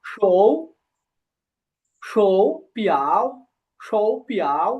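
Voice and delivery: শৌ rising in second tone, slow and drawn out. Shown as a demonstration. Teacher models wristwatch for students, শৌ slowly rising in second tone. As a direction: stretch শৌ upward before পিয়াও. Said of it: "শৌটা হবে যে second টোনে".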